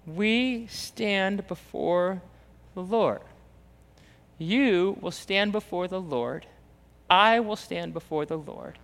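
slow, hushed and grave; solemn reminder. Real, not acted. Preacher reminding church of God's judgment, solemn and soft. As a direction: let it sink in quietly.

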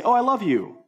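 mock gushing. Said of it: "just say".

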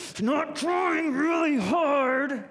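straining mock effort. Preacher mimics straining effort.

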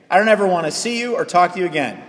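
mildly heated brush-off; firm rejection. Retold or imitated. Churchgoer to pastor in the hallway, firm mock rejection.

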